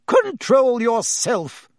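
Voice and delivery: slow, high shrieked rebuke; shrieking. Acted. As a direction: order him to calm down. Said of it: "shrieked Madame Pomfrey".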